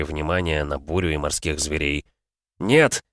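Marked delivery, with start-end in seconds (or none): 2.6-3.0 raised, high retort; emphatic yell; shouted refusal. A narrator's reading. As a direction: shout back defiantly. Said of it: "крикнул Джоран в ответ".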